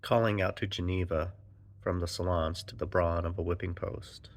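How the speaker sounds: measured spoken-word poem delivery; declaimed verse with firm line openings; poetry reading. Acted. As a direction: read it as a poem, line by line, pausing between phrases. Reads own poem aloud.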